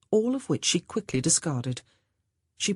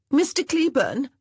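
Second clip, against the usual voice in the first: louder, high call across the lawn; 10 semitones higher, 5 dB louder than usual. A narrator's reading. Monica calling to Mr Cleburne across the lawn, loud and high. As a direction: call him over, raised and bright. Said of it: "Monica called".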